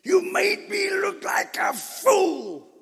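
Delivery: Balaam shrieking at his donkey, hammed up; shouted fool line. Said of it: "He didn't say it".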